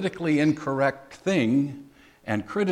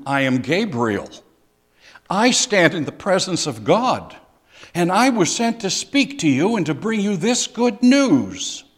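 louder, rising angel's rebuke; the angel sets the doubter straight, firmly; reading Gabriel's words to Zechariah as a firm correction; 5 semitones higher, 7 dB louder than usual. Acted. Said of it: "Do you hear a little, perhaps, correction".

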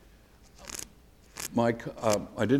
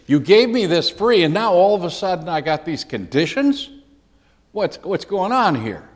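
mildly protesting, raised pitch, loud at the start; indignant objection; 4 semitones higher, 3 dB louder than usual. Retold or imitated. Preacher voicing an objection to sudden conditions, indignant objection. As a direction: argue back as one who feels tricked, lightly acted. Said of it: "That's his argument here".

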